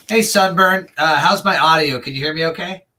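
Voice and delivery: talking through a mouthful of snacks; chewing while talking. Real, not acted. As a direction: speak around a bite of food. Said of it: "Sorry, I'm snacking a little bit".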